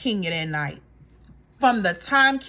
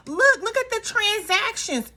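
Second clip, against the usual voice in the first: high, insistent protest; mock defensive; defensive Drew; 12 semitones higher than usual. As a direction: prove it, pleading. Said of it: "She pulls out her phone".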